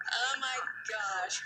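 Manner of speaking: slow, amused oh my gosh; amused gasp. Real, not acted. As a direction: savour the joke. Laughing at the definition.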